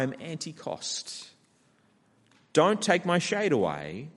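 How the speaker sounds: lightly hammed-up selfish Jonah demanding comfort; a spoiled child bargaining with God, half in jest; preacher paraphrasing a sulking prophet's demands to God; voicing Jonah. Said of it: "what Jonah is saying here is".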